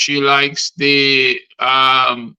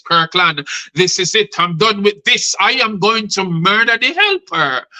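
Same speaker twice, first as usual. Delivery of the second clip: fuming threat; 4 semitones higher than usual. Acted. Wronged woman vows revenge to Kirkland, acted fuming. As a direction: pitch climbing into an angry vow. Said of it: "she was fuming in raging temper".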